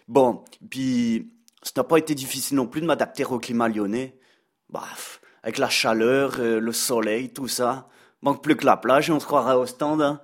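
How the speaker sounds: put-on a light, joking Belgian accent; mocking chronicle in a Belgian accent; Brad Pitt's Belgian accent. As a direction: play a Belgian columnist teasing his hosts in his Belgian accent. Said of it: "comme vous pouvez l'entendre à mon accent".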